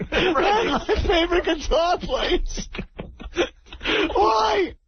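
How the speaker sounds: a hammed-up blubbering boss, lightly voiced; radio caller doing a weepy team owner, mock sobbing; mock weepy Steinbrenner. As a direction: play the tearful team owner, half laughing. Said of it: "We got Corky Steinbrenner".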